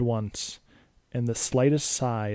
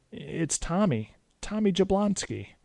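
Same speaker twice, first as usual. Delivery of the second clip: put-on a boy proudly giving his name; kid's answer; 8 semitones higher than usual. A narrator's reading. Boy telling Dracula his name.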